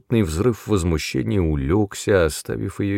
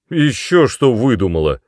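louder, higher angry snap; fierce snap; 4 semitones higher, 7 dB louder than usual. A narrator's reading. Brother snaps fiercely at his crying sister. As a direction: bite her head off. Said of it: "свирепо огрызнулся Мэтт".

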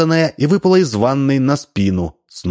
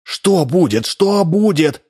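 rising high panicked repeat; panicking; 8 semitones higher, slower than usual. A narrator's reading. Double panicking at wife's knocking, rising fear. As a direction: fear climbing higher.

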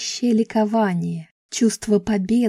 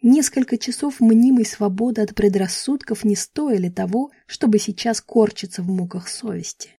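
ordinary delivery

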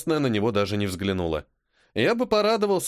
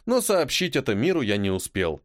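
ordinary delivery, nothing marked

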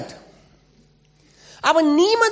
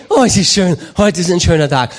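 mock contented Christian; 10 semitones lower, 5 dB louder than usual. Mocking Christians pushing the car.

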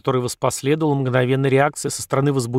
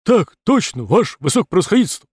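loud, fast drill response; soldiers shouting in unison; 5 semitones higher, 4 dB louder than usual. Acted. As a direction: snap the answer like recruits. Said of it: "Батальон набрал в грудь воздух и ответил".

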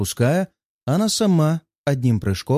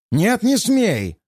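higher, slow squealing cry; panicked shriek; 8 semitones higher, slower than usual. A narrator's reading. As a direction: shriek in panic to stop him. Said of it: "Его голос полон визжащих нот".

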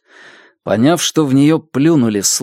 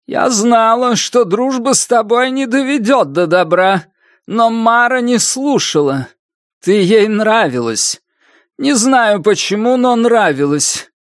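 a hint of a bitter old woman, higher; lightly voiced old woman; 10 semitones higher than usual. A narrator's reading. Old woman blaming the girl, bitterly reproachful. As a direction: reproach her coldly.

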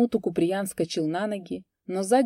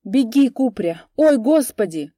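wailing; 5 semitones higher, 9 dB louder than usual. A narrator's reading. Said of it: "голосила Матрёна".

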